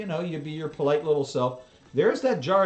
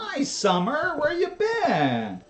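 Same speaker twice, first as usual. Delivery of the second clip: slow, slurred and drawn out; talking weird and sluggish; groggy from anesthesia; 10 semitones higher than usual. Real, not acted. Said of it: "I'm talking weird".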